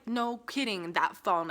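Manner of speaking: exasperated echo, mildly sarcastic; dry, unimpressed retort; retold sarcasm. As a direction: throw it back as obvious. Retells her sarcastic reply.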